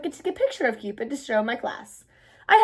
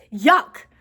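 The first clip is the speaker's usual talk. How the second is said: loud yuck of disgust; 6 dB louder than usual. Acted. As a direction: spit the word out. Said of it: "spitting them out".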